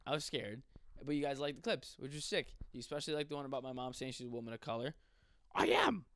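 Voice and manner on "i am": high-pitched Marge Simpson-like mom voice; pitched-up cartoon mom; mom impression. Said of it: "my mom sounds like Marge Simpson".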